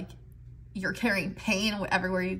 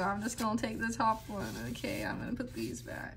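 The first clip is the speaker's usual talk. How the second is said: whispering; 7 dB quieter, faster than usual. Real, not acted. Muttering to herself handling cards.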